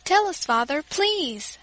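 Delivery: put-on a child begging for the news; pleading. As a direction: beg father to tell them. Children begging their father.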